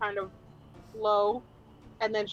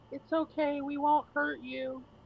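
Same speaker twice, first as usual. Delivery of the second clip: high, gentle, very slow soothing and coaxing voice; 5 semitones higher than usual. Playing a game character calling out to an animal: really soothing voice. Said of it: "in like a really soothing voice".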